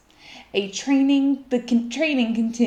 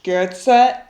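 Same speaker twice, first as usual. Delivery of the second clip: coach's call; 7 dB louder than usual. Acted. Coach starting race.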